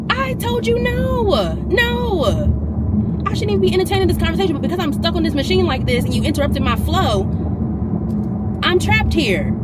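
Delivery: high, loud, fed-up rant; exasperated outburst. Real, not acted. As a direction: let the frustration burst out loud. Venting about the man.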